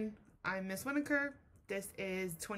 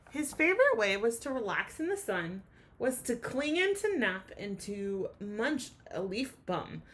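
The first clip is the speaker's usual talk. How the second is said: gentle storybook reading; reading to children. A narrator's reading. Teacher reading the class a rhyming story. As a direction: read it like a bedtime picture book. Teacher reads picture book aloud.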